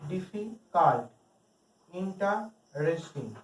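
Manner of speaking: ডিফিকাল্ট and ইন্টারেস্টিং broken into parts with pauses; syllable by syllable. Shown as a demonstration. Teacher listing multi-syllable words, ডিফিকাল্ট, ইন্টারেস্টিং said in separate chunks. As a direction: split them as difi... cult, inte... resting. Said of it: "এগুলো one সিলেবলের বেশি word".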